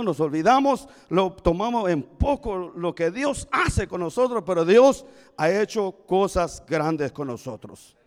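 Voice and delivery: loud, forceful exhortation to the congregation; emphatic preaching. Real, not acted. Preacher urging congregation to remember God's great deeds, emphatic and loud. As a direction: drive it home like a preacher.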